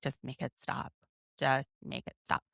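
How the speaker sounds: drained, barely audible plea; exhausted. Retold or imitated. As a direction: say it worn out and faint. Exhausted voice retold.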